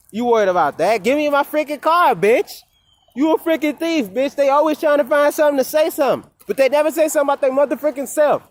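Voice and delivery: loud, high furious rant at the roommate; real shouting match over a stolen car; angry yelling. Real, not acted. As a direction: yell it, fed up and outraged.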